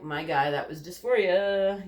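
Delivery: loud, drawn-out mock scolding; slow, emphatic telling-off of oneself; exasperated self-correction. Scolding own past self in retelling.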